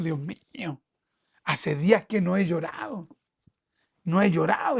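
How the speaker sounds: hushed prayer. Retold or imitated. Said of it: "yo le he dicho a Dios".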